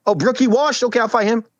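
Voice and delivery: high, sing-song mocking Asian accent. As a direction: mimic the rival with an Asian accent. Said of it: "why do you make him sound Asian?".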